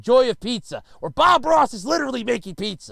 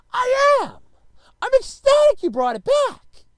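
loud, high sarcastic gush; mock ecstatic; 13 semitones higher, 6 dB louder than usual. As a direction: overplay the joy, dripping sarcasm. Sarcastic reply to store.

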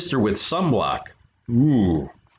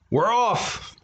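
much higher cheering pirate crew; crew shout; 10 semitones higher than usual. A narrator's reading. Pirate crew shouting as they set sail. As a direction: cheer it out together. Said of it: "everybody shouted".

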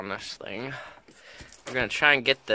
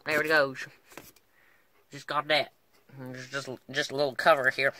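put-on Australian cowboy accent. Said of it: "start talking in a strange Australian slash cowboy accent".

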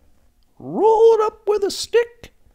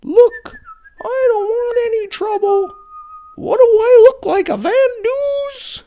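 louder, fast, indignant; flustered outburst; 5 dB louder, faster than usual. Acted. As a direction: blurt it out defensively, rising to a near shout.

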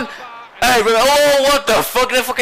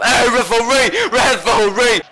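calling ref; 4 semitones higher than usual. Real, not acted. Calling out the referee.

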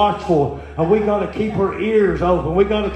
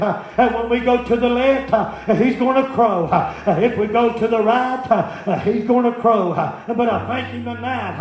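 rhythmic sermon delivery with a steady uh between phrases; preaching cadence; 3 semitones higher than usual. Acted. Preacher urging the church to hear their rooster, in a rhythmic preaching chant. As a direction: preach it like a country revival.

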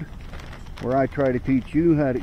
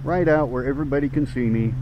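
speaking without dentures; gummy, toothless speech. Real, not acted. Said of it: "no dentures in".

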